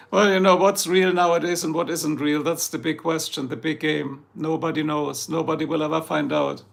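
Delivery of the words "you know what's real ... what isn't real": ordinary delivery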